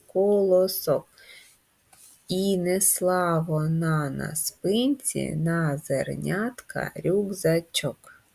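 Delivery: slow syllable-by-syllable chant; drawn-out, rhythmic nursery rhyme; children's rhyme recitation. Shown as a demonstration. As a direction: recite it in measured beats for finger play. Repeats finger-play rhyme.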